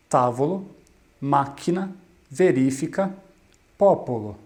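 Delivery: tavolo, máquina, verifica, popolo, each stressed on the third-from-last syllable; antepenultimate-syllable stress. Shown as a demonstration. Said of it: "as proparoxítonas possuem a sílaba tônica".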